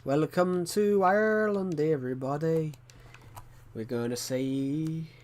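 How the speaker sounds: slow, drawn-out Irish accent. Shown as a demonstration. Streamer welcoming viewers to Ireland, Irish accent. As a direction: stretch the words out in an Irish lilt. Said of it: "do a really good Irish accent".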